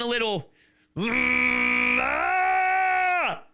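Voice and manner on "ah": a sudden high, loud cry of frustration; exasperated shout mid-rant; frustrated yell. Real, not acted. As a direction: let it burst out of you. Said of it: "'cause I'm getting all mad".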